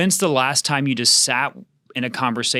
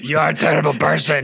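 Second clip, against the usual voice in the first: laughing tease; 2 semitones higher than usual. Real, not acted. Teasing co-host over silly voice.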